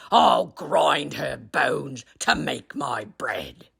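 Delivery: slow, hissed whisper; menacing whisper. Acted. Giant threatening to grind bones, slow menacing whisper.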